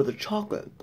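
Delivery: biting into candy bar; talking while chewing; mouth full of candy bar. Real, not acted. Seen 2: Bar held in mouth from 2.4s, then chewing with puffed cheeks at 4.4s.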